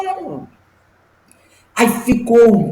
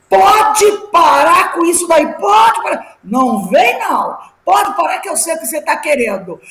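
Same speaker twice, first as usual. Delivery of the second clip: firm rebuke; 6 semitones higher than usual. Retold or imitated. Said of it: "eu falei bem alto".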